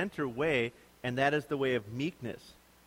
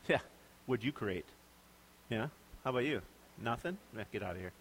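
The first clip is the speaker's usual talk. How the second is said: scoffing taunt; 5 semitones lower, 7 dB quieter, faster than usual. Pretend. Imagined boastful Jesus.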